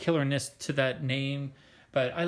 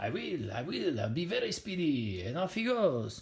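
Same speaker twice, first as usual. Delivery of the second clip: really terrible, bad put-on French accent; 3 semitones higher, 4 dB quieter than usual. Acting out a character from an episode, in a really terrible French accent. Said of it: "really terrible French accent".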